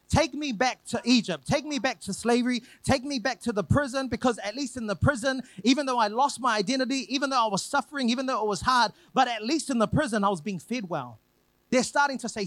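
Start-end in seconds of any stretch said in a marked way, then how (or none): 0.1-11.2 higher, building whine for the prison; mock whining plea. Israelites begging to go back to slavery, in a higher mock whine. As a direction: beg like a spoilt complainer. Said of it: "They are starting to say silly things like".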